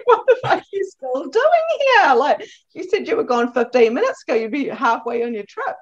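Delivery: high, loud mock-exasperated outburst; loud, high retold rant of disbelief; mock exasperation. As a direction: play up the disbelief that he's still here.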